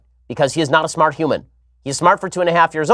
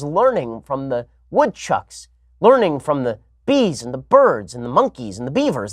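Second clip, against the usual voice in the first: mock dreamy idealism; 4 semitones higher, slower than usual. Mocking the left's parenting view.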